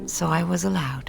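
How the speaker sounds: hushed, breathy whisper. Retold or imitated. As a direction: whisper it like a secret relief. Relieved secret aside.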